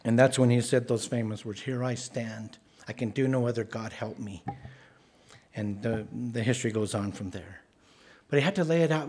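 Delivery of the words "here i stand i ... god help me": softer, quiet and firm declaration; understated solemn stand; solemn resolve. Acted. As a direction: stand your ground, fading to a prayer. Luther's famous words before the Diet.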